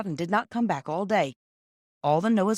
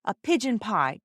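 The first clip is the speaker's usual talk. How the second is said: eager; 4 semitones higher, slower than usual. Acted. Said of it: "said Peter eagerly".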